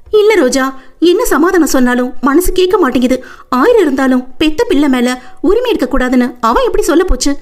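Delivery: high, mildly aggrieved lament. Acted. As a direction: voice the injustice she feels. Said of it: "ஆதங்கப்பட".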